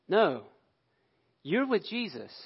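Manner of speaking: a lightly voiced girl pointing Peter out; accusing servant girl. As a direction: press the accusation like a sure young servant girl. Servant girl accuses third time.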